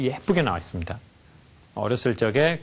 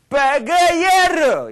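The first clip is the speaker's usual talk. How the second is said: very loud, high, stretched-out yell; all-out enraged curse; 8 dB louder, much slower than usual. Shown as a demonstration. Lecturer in a mock acting class, full-rage drawn-out yell. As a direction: throw your whole self into the insult. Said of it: "얼굴 표정도 같이".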